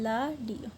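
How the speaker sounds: लाडियो drawn out slowly, starting with l; slow syllable-by-syllable लाडियो; Korean pronunciation. Shown as a demonstration. Teacher writing out Korean radio, slow लाडियो with an initial l. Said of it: "रेडियो को बोलते हैं Korean में लाडियो".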